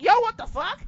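imitating a loud, high shocked yell; mock shock. Retelling seeing Jason Jordan's music hit, shocked yell. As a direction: throw up a startled yell at the screen. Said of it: "I'm like".

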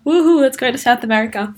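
quick, bright woohoo; excited cheer. Real, not acted. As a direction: cheer it out, fast and eager. Cheering about the trip.

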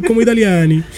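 playful put-on Italian accent; mock Italian. Agreeing with friend's teasing, mock Italian accent. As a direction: echo it in a joke Italian accent. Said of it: "Pero como italiano".

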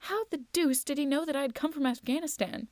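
acted bewilderment; sudden puzzled question. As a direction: ask in mild astonishment, pitch lifted. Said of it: "I asked suddenly".

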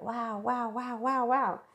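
high, wide-eyed wow, wow, wow; lightly acted amazement, rising pitch; gushing wonder at something new; mock awe. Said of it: "we're like".

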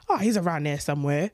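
a loose, unconcerned dad impression; dad's voice. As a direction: brush it off like an untroubled dad. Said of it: "That's not my dad's accent".

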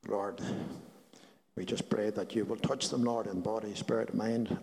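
soft, reverent prayer voice; healing prayer. Acted. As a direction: pray it gently, fading to a hush.

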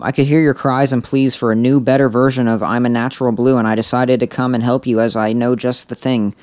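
light mock Scottish ogre; hint of a Scottish Shrek; Scottish accent. Reading Shrek's lines in a light Scottish accent. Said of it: "in his sexy Scottish accent".

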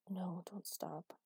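slow, drowsy, pleading; slow drowsy plea. Acted. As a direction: drag it out half asleep. Drowsy plea while being stroked.

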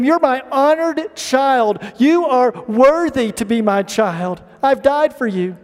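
slow, tender and sincere; slow, tender reassurance of a loved child. Acted. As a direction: reassure a child gently and slowly. Jesus voiced comforting the ashamed.

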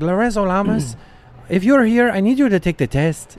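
mock-concerned schoolteacher announcing to class; lightly voiced worried teacher. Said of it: "she's like".

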